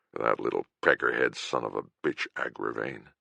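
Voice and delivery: low, bitter snarl through pipe smoke. Acted. Healer cursing the poisoner to the narrator, low snarl. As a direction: spit out the name in low contempt. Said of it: "Kern snarled".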